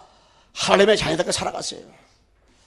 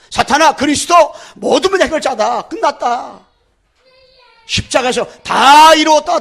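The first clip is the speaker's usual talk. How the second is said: loud, high proclamation; triumphant declaration; 8 semitones higher, 6 dB louder than usual. Acted. Preacher declaring victory to Satan, loud and high.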